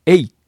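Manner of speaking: えい as e gliding quickly into i; tight diphthong. Shown as a demonstration. Teacher modelling the English vowel, えい said tightly as one glide. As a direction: squeeze e and i together in えい. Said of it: "ほとんど同時に発音するぐらい詰めて".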